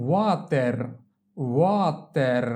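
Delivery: slow, held syllables in "water"; drawn-out model. Shown as a demonstration. Teacher models water for learners, drawn out. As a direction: stretch "water" as a long wa, then ter.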